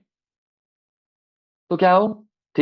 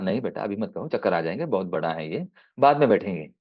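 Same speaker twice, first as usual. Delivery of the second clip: soft fatherly voice; 6 semitones lower, 6 dB quieter than usual. Acted. Father refuses the ride.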